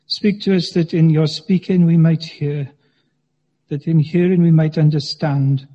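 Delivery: measured, reverent prayer voice. Acted. Preacher praying for the congregation, reverent.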